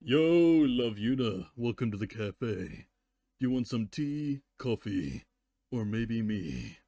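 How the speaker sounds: cheesy flirt with a slow last line; a mock cafe host's pickup line; flirty cafe greeting. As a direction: pitch tea, coffee, then yourself. Inserted joke cafe ad read.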